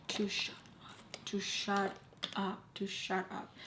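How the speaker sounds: slow, hushed menace, half whispered; whispering. Retold or imitated. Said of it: "whispering in my ear".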